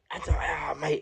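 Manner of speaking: breathy whispered words after a sigh; overwhelmed whisper. Real, not acted. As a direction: let it out on a sigh, barely voiced. Overwhelmed recalling his release.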